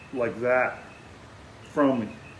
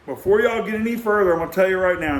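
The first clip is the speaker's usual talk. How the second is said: retold firm warning; 4 semitones higher, faster than usual. Retold challenge to men taking deer.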